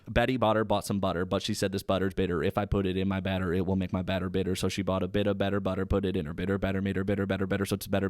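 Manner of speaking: rhythmic tongue twister; tongue twister recitation. Shown as a demonstration. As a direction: recite the Betty Botter rhyme in a steady rhythm. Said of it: "I could kinda do it for you".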